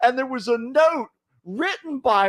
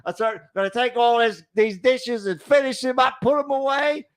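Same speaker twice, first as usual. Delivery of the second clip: mock Australian. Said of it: "I'm turning Australian now".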